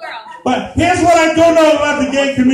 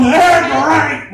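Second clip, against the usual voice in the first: Tony the Tiger. Retold or imitated. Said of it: "I was doing Tony the Tiger".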